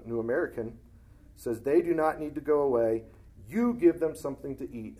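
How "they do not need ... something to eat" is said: louder, emphatic reading with an exclamation; preacher acting out the exclamation mark in the verse; exclaimed. Shown as a demonstration. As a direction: punch it like it ends in an exclamation point. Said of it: "Exclamation point".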